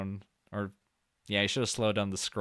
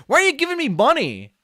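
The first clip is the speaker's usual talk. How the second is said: high, loud put-on Mexican accent; mock Mexican accent; 14 semitones higher, 9 dB louder than usual. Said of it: "That's my best gay Mexican accent".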